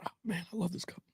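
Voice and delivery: whispered aside to himself. Real, not acted. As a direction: breathe it under his breath, off-mic. Aside to himself about cup.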